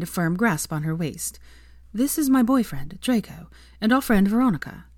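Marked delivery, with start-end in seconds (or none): 1.9-4.8 high, bright introduction; bubbly Sophia. Acted. Sophia introducing Draco and Veronica, high and bubbly. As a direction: show off the boyfriend proudly.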